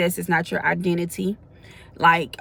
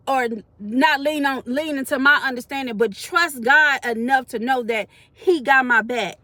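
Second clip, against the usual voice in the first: voicing a seeker; 5 semitones higher than usual. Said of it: "they wanna know".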